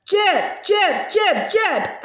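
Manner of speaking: frantic little yelps; yelping. Acted. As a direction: call the dog in a panicked yelp. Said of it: "Agatha yelped".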